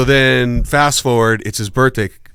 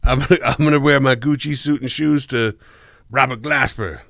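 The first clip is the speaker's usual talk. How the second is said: dad's way of talking. Retold or imitated. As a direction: imitate your dad announcing his plan. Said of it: "And that's how he talks".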